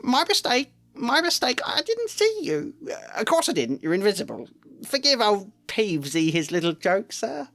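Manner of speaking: high, panicked, oily apology; grovelling poltergeist. A narrator's reading. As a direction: flatter him to save your skin. Peeves grovelling in fright.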